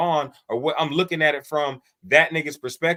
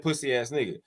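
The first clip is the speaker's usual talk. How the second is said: softer, slightly lower muttered insult; muttered under breath; 3 semitones lower, 6 dB quieter than usual. Retold or imitated. Demonstrating what a player said in passing, muttered under breath. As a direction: say it low, as an aside. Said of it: "What did he say under his breath?".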